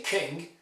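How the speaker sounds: "king" with short lax vowel leaning to uh; near-uh vowel. Shown as a demonstration. Teacher shows what native speakers say, "king" with lax vowel. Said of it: "It's almost an uh".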